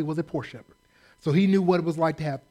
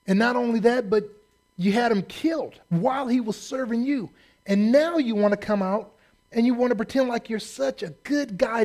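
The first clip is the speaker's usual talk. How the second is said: pulpit-pounding prophet's rebuke; fiery rebuke; 6 semitones higher than usual. Retold or imitated. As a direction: preach it at David like the prophet confronting him. Nathan rebuking King David.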